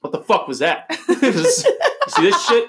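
outraged chef, shouting at the dish; furious chef. Retold or imitated. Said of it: "That's my Gordon Ramsay impression".

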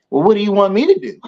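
high, fast put-upon voice; mock whiny employee. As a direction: whine it like a helpless employee.

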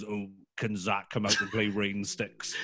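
lightly voiced slow, low impression; Simon Bracy. Friend at the door asking a child out to play, as Simon. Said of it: "that's an amazing Simon impression".

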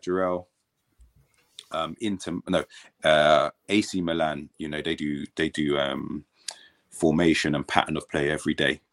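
low-key, understated deadpan coach. Retold or imitated. Coach telling player about Milan's training, deadpan. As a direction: imitate a coach's unexcited delivery. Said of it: "he's so deadpan".

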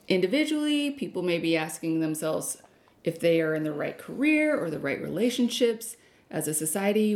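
mystical fortune teller reading; psychic voice. Pretend. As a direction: read it like a dramatic psychic. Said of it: "let me say it like I'm a psychic".

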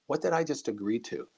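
softly imitated aside in someone's ear; retold whisper. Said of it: "whispers in my ear".

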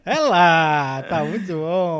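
laughing through the words; giggling, can barely get it out. Real, not acted. Laughing at bromance joke.

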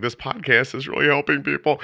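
high-pitched, touched wonder; mildly hammed-up heartfelt delight; retold choked-up pride. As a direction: act being moved by it. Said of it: "got all, like, kind of filled up".

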